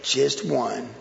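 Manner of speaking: pretty please squeaked high, then begging settles down; hammed-up pleading with Jesus; a playful begging prayer for one movie role; mock begging prayer.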